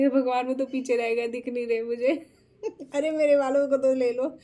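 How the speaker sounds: begging the rickshaw women to take her friends, laughing loud; frantic laughing plea. Retold or imitated. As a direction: beg them in a panic through giggles. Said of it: "मैं उन लोगों को बोल रही हूँ".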